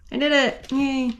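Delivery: happy little cheer of success; excited. Real, not acted. Zip tie finally in.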